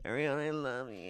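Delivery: mildly imitated tearful plea; half-hearted fake weeping on a declaration of love; mock weeping. Retelling Sandoval declaring love to Ariana, mock weeping. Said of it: "goes from weeping, crying".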